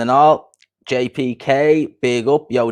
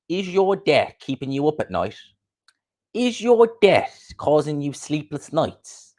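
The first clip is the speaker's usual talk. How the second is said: higher-pitched, drawn-out advert voice; mock ad intro; 5 semitones higher, slower than usual. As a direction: put on a slow, high-pitched advert pitch. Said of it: "that intro was ki".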